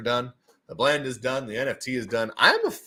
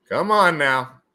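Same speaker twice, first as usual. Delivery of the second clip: louder, urging call; emphatic repeat; 3 semitones higher, 6 dB louder, much slower than usual. Real, not acted. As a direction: push it out louder.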